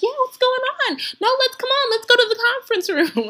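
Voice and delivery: high, breezy and unbothered; a relaxed colleague waving it off; laid-back coworker. Retold or imitated.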